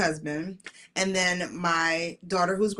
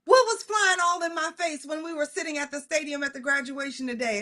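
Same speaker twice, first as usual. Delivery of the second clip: daughter asking; 6 semitones higher than usual. Retold or imitated. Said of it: "she's like".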